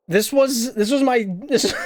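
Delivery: sheepish laugh over his drawing. Real, not acted. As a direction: laugh while getting the words out. Laughing while showing the drawing.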